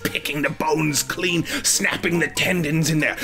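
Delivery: put-on slow, gleeful old lady; slow savoring granny. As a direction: savor every gory word. Grandma relishing gore, slowed.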